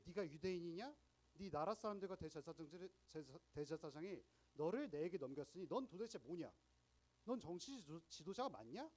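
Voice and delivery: loud, challenging interrogation of a prisoner; a lightly voiced governor pressing hard; Pilate questioning. Preacher voicing Pilate interrogating Jesus, loud challenging questions. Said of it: "이렇게 빌라도가 묻는 거예요".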